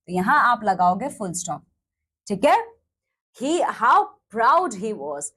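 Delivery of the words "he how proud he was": slow dictation. Shown as a demonstration. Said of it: "एक्सक्लेमेशन मार्क".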